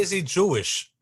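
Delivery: high mocking repeat of the question; mock quote of a friend's question; imitating how he said it. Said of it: "How does he say".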